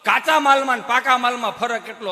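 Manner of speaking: ordinary delivery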